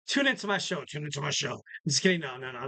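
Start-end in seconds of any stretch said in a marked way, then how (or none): 0.1-1.5 jokingly aggressive. Pretend. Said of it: "that was a little aggressive".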